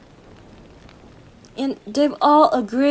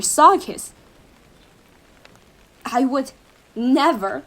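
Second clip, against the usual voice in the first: fervent vow; 4 dB louder than usual. Acted. Lover vows through burning and hell.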